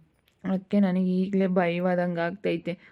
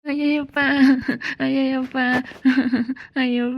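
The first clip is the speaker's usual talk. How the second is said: scared yelp; 6 semitones higher, 5 dB louder, faster than usual. Acted. Timid man scared by girl.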